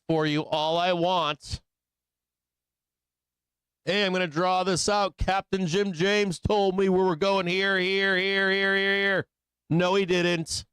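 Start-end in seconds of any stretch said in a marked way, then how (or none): 3.9-9.3 lightly mocking trader, repeated words running together. Trader claiming the captain told him, lightly mocked. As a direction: parody an overeager follower, lightly. Mimics trader citing his advice.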